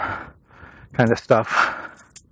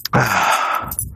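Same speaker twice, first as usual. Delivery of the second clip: cold air breath; 4 semitones lower than usual. Real, not acted. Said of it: "I can see my breath".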